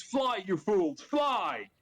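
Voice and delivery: lightly acted heroic cry to flee; Gandalf. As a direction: call a warning like an old wizard. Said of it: "in my best Gandalf impression".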